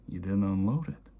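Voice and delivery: loud, flat accusation. Retold or imitated. Father blaming his son for the dishes, loud and accusing. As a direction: throw the blame back hard.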